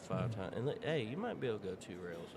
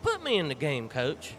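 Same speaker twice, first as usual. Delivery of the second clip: mock shout; 5 semitones higher, 9 dB louder than usual. Mock pleading to be put in.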